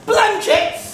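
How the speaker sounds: high-pitched questioning cry; incredulous echo. Acted. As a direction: throw it back high, rising at the end. Crewmate echoes the plot in disbelief.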